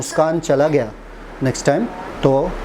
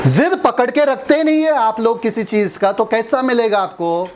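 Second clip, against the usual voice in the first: scolding rebuke; 6 semitones higher than usual. Real, not acted. Preacher rebuking congregation.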